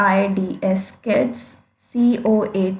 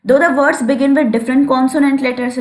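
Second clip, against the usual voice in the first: slow, deliberate reading of the definition; dictating pace; slow dictation; 2 semitones higher, much slower than usual. Shown as a demonstration. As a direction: read it out word by word for notes. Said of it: "teacher dictating definition slowly".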